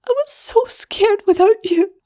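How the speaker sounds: high, small whimper; a frightened little sister's plea. Acted. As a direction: voice small and shaky with fear. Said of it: "Wire whimpered".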